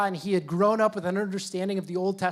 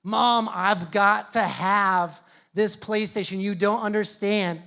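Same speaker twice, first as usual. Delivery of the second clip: put-on slow, pleading kid begging mom; mock kid begging mom for a PlayStation; 4 dB louder, slower than usual. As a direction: beg for the PlayStation slowly. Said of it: "I was beseeching her".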